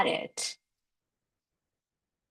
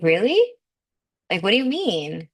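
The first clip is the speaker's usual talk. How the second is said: incredulous. Retold or imitated. Questioning the whisper.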